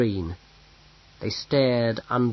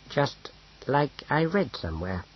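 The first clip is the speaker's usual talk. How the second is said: awkward; 5 dB quieter than usual. A narrator's reading. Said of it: "he said awkwardly".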